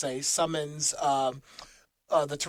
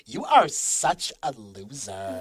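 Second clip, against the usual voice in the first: put-on slow, drawn-out Valley Girl sneer; 2 semitones lower, slower than usual. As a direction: draw it out like a bored Valley Girl. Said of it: "Valley Girl voice".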